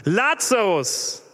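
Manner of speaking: slow, drawn-out call of the name; laut gerufen. A narrator's reading. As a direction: call him out of the tomb, slowly. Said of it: "rief er mit lauter Stimme". (langsam und laut gerufen)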